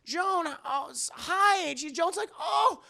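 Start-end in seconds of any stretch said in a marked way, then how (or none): 0.0-1.7 high, eager calling out; excited greeting. Acted. Mother spotting Joan in parking lot, high excited hello. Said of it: "She goes". 2.4-2.8 very high, giddy, laughing call; gleeful greeting. Acted. Joan waving Toni over in parking lot, giddy high call. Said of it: "she's laughing, having a great time".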